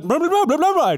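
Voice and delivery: high, frantic gibberish. Acted. Truck stop owner talking to receptionist, frantic. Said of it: "talking to her in a frantic voice".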